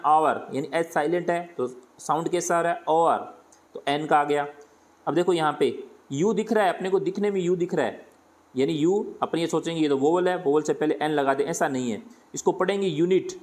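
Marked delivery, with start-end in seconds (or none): 0.1-0.5 आवर said with no H, starting on an open "aa"; silent H. Shown as a demonstration. Teacher sounding out आवर for students, H silent. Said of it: "इनको बोल के देखना है". 12.9-13.3 यूनिट begun with a "y" glide, "yoo-nit"; initial Y sound. Shown as a demonstration. Teacher reads out यूनिट to show its opening Y sound. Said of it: "ये का sound आ रहा है".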